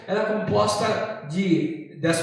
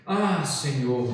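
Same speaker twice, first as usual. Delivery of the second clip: slow, low sigh to God; deep sighed prayer; 4 semitones lower, slower than usual. Acted. Preacher shows a wordless-need prayer, deeply sighed. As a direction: breathe out a drawn, imitated prayer. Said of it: "Muitas vezes um respirar lá profundo".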